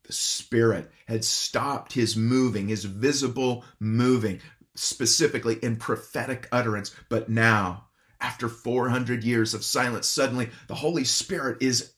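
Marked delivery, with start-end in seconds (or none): none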